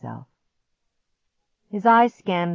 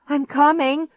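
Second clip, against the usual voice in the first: dazed; 10 semitones higher, 6 dB louder than usual. A narrator's reading. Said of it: "through a dizzy haze".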